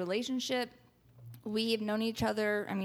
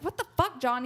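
high, sharp shocked call; high indignant what the fuck; shocked outburst; 4 semitones higher than usual. Retold or imitated. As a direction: react in disbelief. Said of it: "everyone looks at John like".

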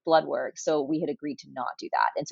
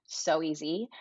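whispered; 5 dB quieter, slower than usual. Real, not acted. Answering how pregnancy was.

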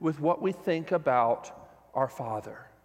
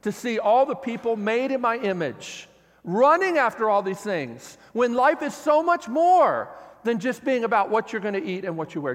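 aching; 3 dB louder than usual. Retold or imitated. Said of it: "hear the ache in his voice".

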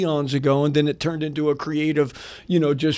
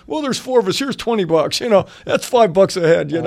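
cheapskate bargaining; 2 semitones higher, 5 dB louder than usual. Retold or imitated. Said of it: "I was being a total cheapskate".

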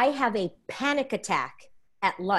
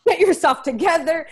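retold tough father; 5 dB louder than usual. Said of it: "Latino father".

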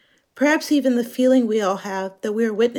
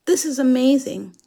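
put-on British accent; 2 semitones higher than usual. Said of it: "in a British accent".

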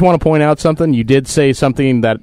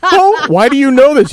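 laughing disbelief; 10 semitones higher, 3 dB louder than usual. Retold or imitated. Dad reacts to son, laughing.

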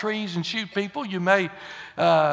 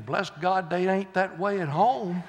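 amused thought; 6 dB quieter than usual. Retold or imitated. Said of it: "And you're thinking".

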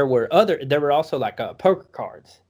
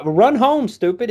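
higher, louder retold rebuke; mock scolding; 9 semitones higher, 4 dB louder than usual. Older kid sends the sick boy home, mock scolding. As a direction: impatiently order the kid off, in imitation.

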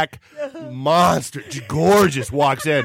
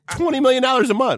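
excited; 11 semitones higher than usual. Real, not acted. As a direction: blurt it out in amazement. Exclaims about the big pay.

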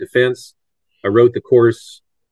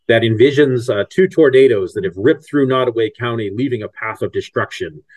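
big promo announcer read. Shown as a demonstration. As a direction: announce it like a trailer. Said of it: "I'll use my, my, um, announcer voice".

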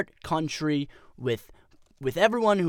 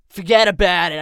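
forget about it; 6 dB louder than usual. Acted. Blowhard pundit ranting on podcast.

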